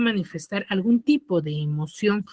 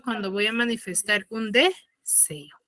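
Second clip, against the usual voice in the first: whisper; 6 dB quieter than usual. Real, not acted. Susurra de pronto.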